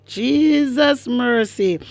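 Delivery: slow, stretched exclamation; drawn-out disbelief. Real, not acted. Host hearing the driving claim, incredulous. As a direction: draw both words out in disbelief.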